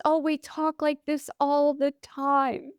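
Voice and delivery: lightly voiced old lady, slowed down; little old lady voice. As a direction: gently imitate a sweet confused patient. Patient voiced, hand cupped to ear.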